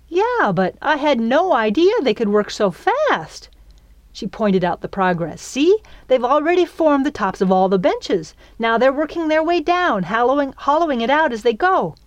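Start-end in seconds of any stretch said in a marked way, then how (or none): 0.1-3.5 high-pitched amazed gushing; over-enthusiastic. A narrator's reading. Girl marveling at the termites' speed, over-enthusiastic. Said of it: "she probably sounded over-enthusiastic". 5.4-12.0 high, bubbling excitement; over-enthusiastic. A narrator's reading. Girl showing the fairy the benches, over-enthusiastic. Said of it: "she knew she probably sounded over-enthusiastic".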